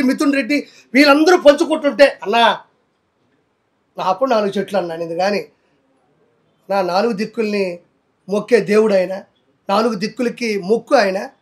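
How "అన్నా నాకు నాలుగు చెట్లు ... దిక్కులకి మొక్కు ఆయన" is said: lower, softer, mock-innocent imitation of Roja; a sly mocking impersonation, lower and softer. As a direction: mimic her soft pleading denial. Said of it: "Roja అల్లా".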